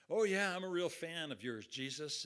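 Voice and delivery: loud, high opening, eager to impress; gushing fan. Pretend. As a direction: play an over-keen, self-assured fan. Acted boastful fan meeting Jesus.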